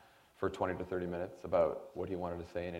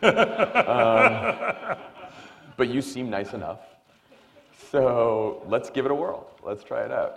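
laughing Obama impression; 6 semitones higher, 9 dB louder, much slower than usual. Obama quoted, laughing at breakfast.

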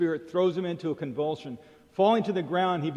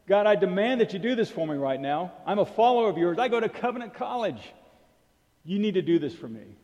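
mock-entitled demand, louder and pushy; demanding prayer; 3 semitones higher, 3 dB louder than usual. A believer demanding God act right now, mock-demanding. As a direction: insist on it like a spoiled student. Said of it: "even sometimes we demand it".

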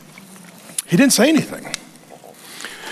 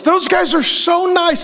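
higher, slow, syrupy "so nice"; mock sweet; 9 semitones higher than usual. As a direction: gush like it's adorable, mocking. Mocks overly nice men.

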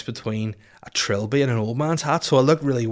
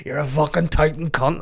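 raised-pitch imitation of a Belfast rant; exaggerated Belfast mum insult; mock Belfast accent; 5 semitones higher, 4 dB louder than usual. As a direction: hurl it in hammed-up Belfast. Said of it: "you're not from Belfast".

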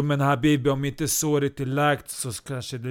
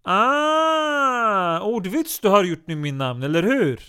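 Turkish Yoda voice; 8 semitones higher, 6 dB louder, slower than usual. Retold or imitated. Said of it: "Han lät precis som, som Turk Yoda".

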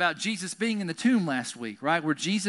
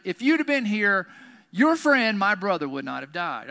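emotional reproach; 3 semitones higher, 5 dB louder than usual. Acted. Martha to Jesus after her brother's death, emotional reproach. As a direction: plead as a hurt, let-down friend. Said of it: "That's an emotional scripture".

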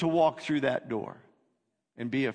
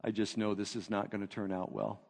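gloomy foreboding; 6 semitones lower, 7 dB quieter than usual. Retold or imitated. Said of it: "He says".

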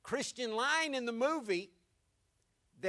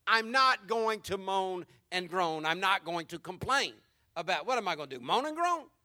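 put-on paraphrasing the kid; 4 dB louder than usual. Pastor explaining the Karate Kid line, firm and deliberate. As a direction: spell out what the kid really means. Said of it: "he's saying".

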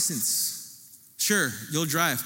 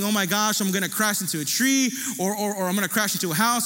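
retold panic; 4 semitones higher than usual. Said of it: "I'm freaking out thinking".

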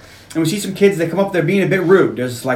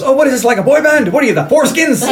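high, punchy retold taunt; mocking taunt; 7 semitones higher than usual. Coach ridicules young punks, mocking. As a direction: needle them like a cocky coach.

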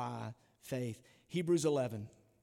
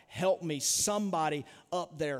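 retold scream; 3 dB louder than usual. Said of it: "and he screams out".

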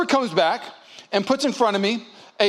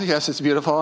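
half-hearted, lower-pitched yes; reluctant agreement; 4 semitones lower than usual. Acted. Husband humoring his wife on an outing, reluctantly. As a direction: agree just to get it over with. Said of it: "I just wanted to be over".

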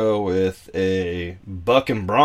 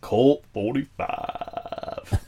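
vocal fry; 2 semitones higher, much slower than usual. Retold or imitated. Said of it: "with some vocal fry on it".

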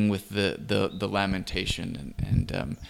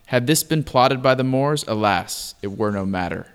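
poem recitation; 4 dB louder than usual. Acted. Reads the old poem aloud.

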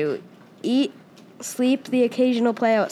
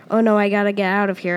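panicked mutter; faster than usual. Acted. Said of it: "I say to myself".

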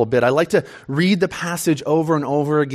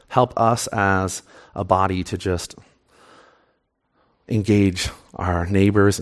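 low, subdued praying voice; prayer; 8 semitones lower than usual. Real, not acted. Pastor praying to God before the sermon, low and subdued.

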